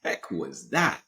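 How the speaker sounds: startled. Retold or imitated. Jolted awake, baffled.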